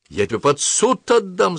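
high, loud threatening yell; captain screaming a court-martial threat. A narrator's reading. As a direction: yell it at the soldier. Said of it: "завопил ротмистр".

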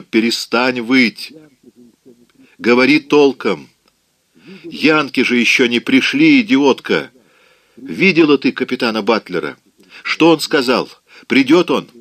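loud, sharp scolding; angry scolding. Acted. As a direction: shake her into sense, loudly. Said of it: "схватила Присси за плечи и тряхнула".

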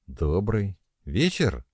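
slow, relieved greeting; relaxing. Acted. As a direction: let the tension go as you answer. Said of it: "расслабляясь". (медленно, с облегчением)

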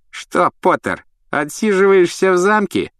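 high, taunting bully voice; sneering shout. Acted. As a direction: jeer at him across the hall. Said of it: "крикнул Малфой".

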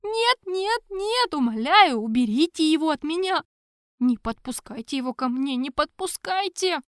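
high, loud, panicked begging; wounded man begs in terror; terrified pleading. Acted. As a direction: beg them to keep him away.

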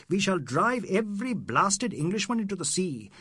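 high, loud raging tirade; in an awful rage; angry cry. Acted. Aziz raging at the English, high and loud. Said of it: "and cried".

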